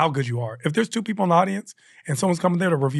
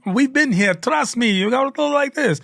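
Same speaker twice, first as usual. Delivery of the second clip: a mock Scottish local accent, pitched higher; a weak attempt at a Scottish accent, lightly done; 8 semitones higher than usual. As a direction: imitate a Scottish festival organizer giving advice, badly. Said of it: "I don't do a great accent".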